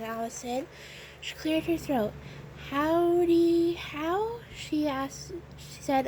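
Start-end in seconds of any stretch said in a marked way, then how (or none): 2.7-4.4 higher, hesitant attempt at a holler; tentative, questioning call; unsure holler. A narrator's reading. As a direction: try a holler, ending as a question. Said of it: "unsure of herself".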